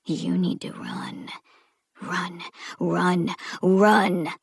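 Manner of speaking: urgent inner push to flee; inner voice urging. Acted. Voice in Eve's head urging her to run, building. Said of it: "that voice in Eve's head".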